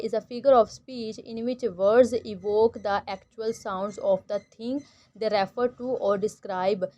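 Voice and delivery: slow, deliberate reading of a textbook definition; slow reading aloud. Shown as a demonstration. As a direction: read each word clearly for the class. Reads the definition slowly.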